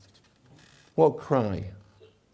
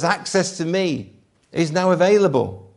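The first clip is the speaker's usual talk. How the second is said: proclaiming; 3 semitones higher, 6 dB louder than usual. Acted. God proclaiming open access.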